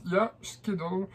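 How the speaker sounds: "schedule" said the French way, like "skédol"; badly pronounced English. Shown as a demonstration. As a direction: mangle "schedule" with French sounds. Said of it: "je le dis très mal". ("schedule" prononcé à la française, mal)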